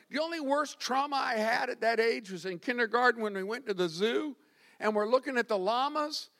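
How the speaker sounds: normal talking voice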